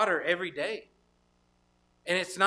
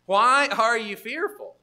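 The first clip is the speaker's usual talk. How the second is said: slow rebuke; 4 semitones higher, 8 dB louder, slower than usual. Acted. Preacher voicing Jesus' rebuke.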